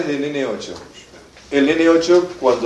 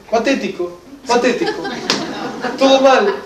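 scornful teacher dismissing the mother; indignant; 9 semitones higher than usual. Real, not acted. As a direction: condemn it with mounting disbelief. Teacher condemns the mother's attitude.

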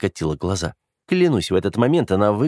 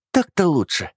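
smug, satisfied, pitched higher; pleased; 9 semitones higher than usual. Acted. Sister lounging on the couch, pleased with herself. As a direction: settle in and purr it out, content with yourself. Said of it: "довольным тоном выдала".

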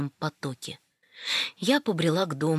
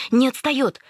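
не отстаёт higher and louder; louder alarmed repeat; 6 semitones higher, 4 dB louder than usual. Retold or imitated. Varya running behind, repeating the warning louder. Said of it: "приговаривая".

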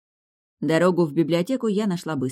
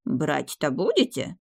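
slow, drawn-out puzzled question; old librarian left at a loss, asking slowly; bewildered; slower than usual. A narrator's reading. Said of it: "растерянно пробормотал библиотекарь".

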